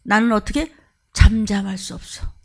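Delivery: lightly voiced prophet, burning and earnest; understated fervent resolve; Jeremiah resolved. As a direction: insist you cannot keep silent. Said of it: "그러고 있-, 있다가".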